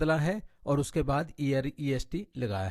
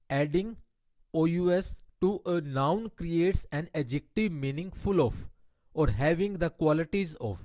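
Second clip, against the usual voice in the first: slow, deliberate reading of an English grammar rule; much slower than usual. Shown as a demonstration. Teacher reading a grammar rule to her Hindi-speaking class, slow and deliberate. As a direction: spell out the rule word by word for students.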